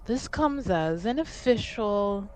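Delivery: measured, careful official request with long pauses; lightly voiced envoy, stately and deliberate; formal envoy. Envoy making an official request for House Montbéliard, formal and careful.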